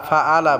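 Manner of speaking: ফাআলা with a light glottal a, no throat squeeze; hamza for ayn. Shown as a demonstration. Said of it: "এটা হামজা উচ্চারণ হবে".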